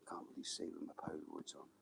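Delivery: hushed whisper so the fish don't hear; quiet unvoiced aside while fishing. Real, not acted. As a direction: breathe it out under your breath.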